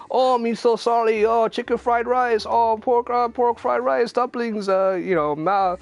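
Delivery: high, loud hammed-up stereotype Chinese accent, slowed on the dish names; mock Chinese stereotype accent. Host retelling a racist TV skit, in a loud high mock Chinese accent. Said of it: "the worst Chinese, like, stereotype accents".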